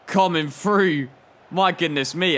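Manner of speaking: a surprised gasp of delight; excited commentary. Real, not acted. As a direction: get swept up as the player breaks through. Commentating on Zaha's run.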